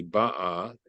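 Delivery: "ba'a" with the stress on its first syllable, BA-a. Shown as a demonstration. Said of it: "the, the last syllable".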